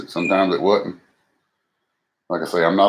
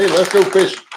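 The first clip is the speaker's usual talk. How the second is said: imitating Irvin; 11 semitones higher, 5 dB louder than usual. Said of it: "he'll hit me up sometimes and say".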